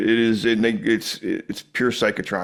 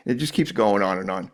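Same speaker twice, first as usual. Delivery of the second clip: ordinary talk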